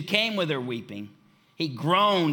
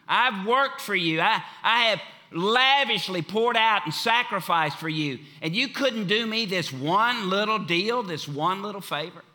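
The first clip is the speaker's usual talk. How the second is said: higher, louder hurt reproach; wounded complaint, pitched up and pushed; offended Mary; 5 semitones higher, 4 dB louder than usual. Retold or imitated. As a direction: list what you've done for him, aggrieved. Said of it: "She was offended, hurt".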